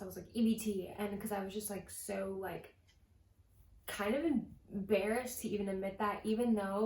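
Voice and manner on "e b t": rushed out, a little louder; said really fast. Retold or imitated. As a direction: blurt it out quickly to get it over with. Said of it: "really fast".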